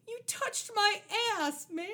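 high, slow whiny complaint; mock the whiny thug's outrage; whiny quote. Retelling the thug's line to co-host, high whiny mock. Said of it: "The delivery is what makes it so weird".

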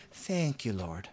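grateful prayer. Retold or imitated. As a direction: thank God gently, from the heart. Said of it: "what if we just said".

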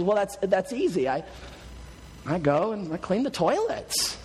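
lightly acted matter-of-fact reply. Wife calmly explains her anger trick to husband, matter-of-fact. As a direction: answer as if it were obvious, understated. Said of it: "very matter-of-factly and says".

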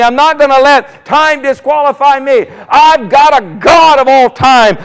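mounting prayer cry; fervent prayer. Acted. Preacher voicing a fervent prayer.

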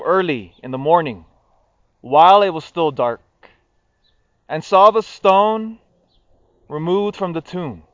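measured solemn scripture reading; gospel reading. Acted. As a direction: read the Gospel aloud at Mass.

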